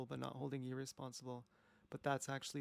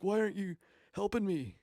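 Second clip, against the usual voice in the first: loud, high desperate mock yell; hammed-up cry for help; 7 semitones higher, 9 dB louder than usual. Jesus on the cross yelling to no one, hammed-up loud plea. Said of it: "he's literally yelling to no one".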